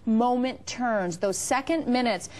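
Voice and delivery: upbeat sales pitch; home shopping host. Acted. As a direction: sell it like a TV host.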